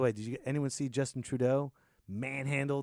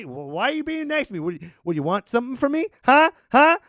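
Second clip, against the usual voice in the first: high, loud, hammed-up challenge; mock suspicious confrontation; 10 semitones higher, 10 dB louder than usual. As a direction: push back like you smell a trick. Suspicious American reacting to niceness.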